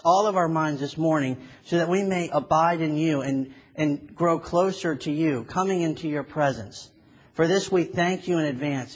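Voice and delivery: earnest, steady prayer voice; pastor's prayer. Acted. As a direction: pray it sincerely to the Lord. Leads the congregation in prayer.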